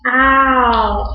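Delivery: long, drawn-out cat "Ow"; imitated cat cry. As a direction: stretch "Ow" like a cat's cry. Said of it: "what kind of animal almost always says".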